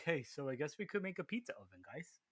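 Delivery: breezy, offhand pretend business guy; mock casual dealmaker. Mocking Joe and Louis striking a pizza oven deal, breezy and offhand. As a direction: toss off the deal like it means nothing.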